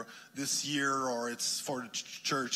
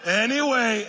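laughing; 10 semitones higher, 12 dB louder than usual. Real, not acted. Golf joke, laughing.

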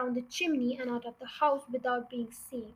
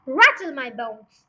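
slow, loud spooky voice; spooky parrot; 8 dB louder, slower than usual. Acted. Parrot imitating a spooky voice for Matilda, slow and eerie. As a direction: draw it out like a ghostly parrot. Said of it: "giving a wonderful imitation of a spooky voice".

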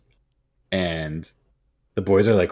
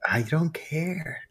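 mock indifference; 8 semitones higher, 7 dB quieter, much slower than usual. Mock indifferent quote, high soft.

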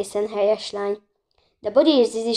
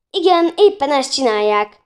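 sarcastic; 5 semitones higher, 6 dB louder than usual. A narrator's reading. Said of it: "mondta Bori".

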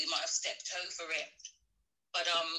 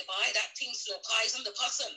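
light Caribbean lilt on a mother's saying; a hint of Caribbean accent, quoting mum. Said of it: "I'm speaking in my Caribbean accent".

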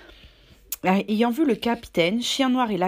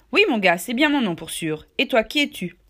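put-on hearty, louder old sailor voice; jovial Silver; 3 semitones higher, 5 dB louder than usual. Cook greeting the new boy, hearty and louder.

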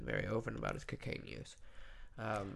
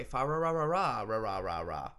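1 Christmas Story carol; 3 semitones lower, 5 dB louder than usual. Retold or imitated. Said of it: "the scene in Christmas Story".

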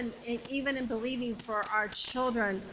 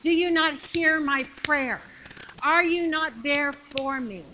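louder, insistent plea to God; pleading prayer; 3 semitones higher, 4 dB louder than usual. Acted. Believer asking Jesus where he is, pleading. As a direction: cry out in prayer as if unanswered.

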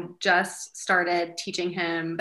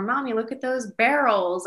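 put-on higher, eager little-boy voice; child pointing things out; 5 semitones higher, 4 dB louder than usual. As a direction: point it out to mommy like a little kid. Voicing excited little son.

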